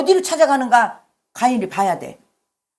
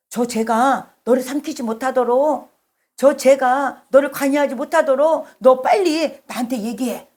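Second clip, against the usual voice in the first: earnest plea. Acted. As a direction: plead as God trying to protect someone from sin. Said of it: "그 사랑이 간절하게 느껴지지 않나요?". (간절히 호소하는 말투)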